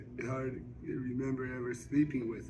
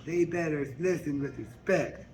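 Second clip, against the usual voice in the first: lightly voiced Suge; 2 semitones higher than usual. Suge persuades Mary Agnes to sing at Harpo's, confident. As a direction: promise her the crowd. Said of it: "she say".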